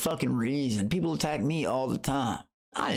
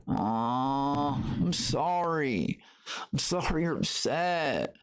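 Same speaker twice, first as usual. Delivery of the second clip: slow, sarcastic fake comfort; a drawn-out sarcastic aw to an upset rival; mock sympathy; much slower than usual. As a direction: pat the hater on the head with fake pity.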